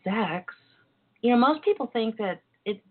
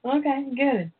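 whispering; 5 semitones higher than usual. Real, not acted. Whispered aside.

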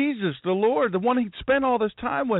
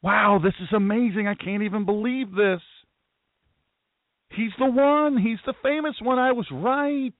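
amazed inner voice; 2 semitones higher than usual. Pretend. Peter's imagined amazed thoughts.

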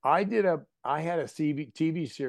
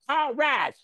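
put-on much higher, loud excited deep-South accent; deep Southern accent; 8 dB louder than usual. A cousin cheering a Georgia State touchdown, thick excited Southern accent. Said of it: "he'll go way deep in the woods".

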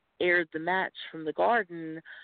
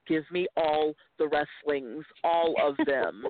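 slow, drawn-out hungry demand; greedy demand; slower than usual. Retold or imitated. Retelling getting hooked on wrestling, in a slow greedy demand. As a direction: stretch it like a craving kid. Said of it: "before I was like".

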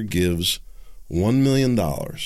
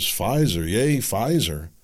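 mock cheer; slower than usual. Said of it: "All you hear is".

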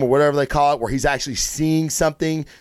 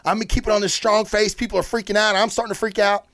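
higher, anxious Lois pleading for answers; panicked Lois; 5 semitones higher than usual. Retold or imitated. Lois frantically asking Bruce where Clark is, higher and anxious. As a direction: play her rising worry as she asks for Clark. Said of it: "she's like".

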